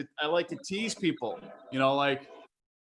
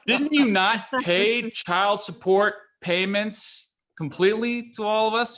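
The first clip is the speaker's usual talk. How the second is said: laughing through it; 4 semitones higher, 4 dB louder than usual. Retold or imitated. Challenging dad while laughing.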